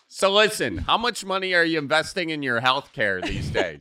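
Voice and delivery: lightly voiced dad starting an unprompted talk; a hint of dad giving unsolicited advice; bored dad. Bored dad in the car quizzing his kid on health care, lightly mock-paternal. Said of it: "Dad, bored in the car".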